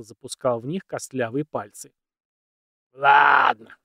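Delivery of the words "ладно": sudden loud high burst; loud exclamation. Acted. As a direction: shout it out eagerly. Old man loud, rubbing hands.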